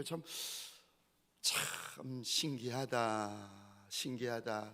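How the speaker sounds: low, soft, slowly drawn out; musing wonder. Retold or imitated. Pastor marvelling to himself, musing softly. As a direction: murmur it slowly to yourself. Preacher voices his own puzzled reflection.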